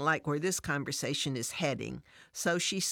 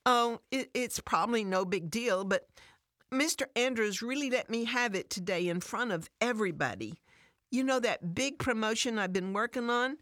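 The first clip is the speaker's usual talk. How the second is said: holding back tears; 5 semitones higher than usual. Acted. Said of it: "Tears start to come to her eyes".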